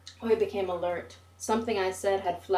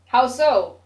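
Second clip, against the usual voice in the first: sharp question; 5 semitones higher, 12 dB louder than usual. Acted. Oi challenges the narrator.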